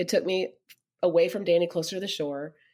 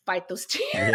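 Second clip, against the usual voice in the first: fighting tears; slower than usual. Retold or imitated. Mimics holding back tears.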